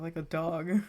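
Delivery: normal talking voice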